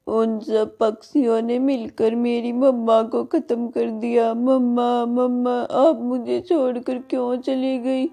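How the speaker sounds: a touch of tearful lament, slow; grieving child. Acted. Witch's daughter laments her mother, mildly tearful. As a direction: mourn mama like a lost little girl, lightly. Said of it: "रोती बिलखती".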